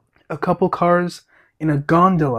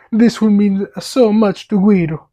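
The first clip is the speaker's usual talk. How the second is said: put-on Italian accent; 4 semitones higher, 4 dB louder than usual. Luigi voiced in Italian accent.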